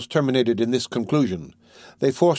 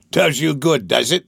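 cried; 3 semitones higher, 4 dB louder than usual. A narrator's reading. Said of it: "cried Sikes".

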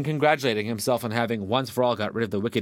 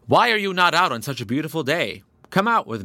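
rabbit calling brightly, higher and louder; 7 semitones higher, 5 dB louder than usual. A narrator's reading. Rabbit calling the badger out of his den. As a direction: call him out of the den. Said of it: "The rabbit called out".

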